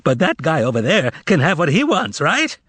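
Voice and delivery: high mocking complaint; indignant harangue. Korovyov haranguing the shoppers, high and indignant. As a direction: stir the crowd against him.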